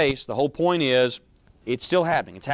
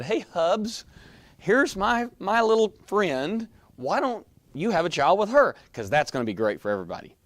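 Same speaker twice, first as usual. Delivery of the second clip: higher, mock-sweet wife voice, mocking the offer; sarcastic mock wife; 6 semitones higher than usual. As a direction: play it like an insincere wife, sugary sarcasm. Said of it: "Said no sincere wife ever".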